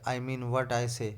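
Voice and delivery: very slow, each word set down; drawn-out, measured retort; slow and firm. Acted. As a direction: spell it out deliberately. Rajni retorts to headmaster.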